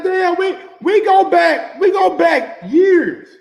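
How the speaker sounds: loud, high, dragged-out protest; hurt outcry. Retold or imitated. Pleading with Danny about their long friendship, loud protest. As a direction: shout your old friendship at him. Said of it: "I said".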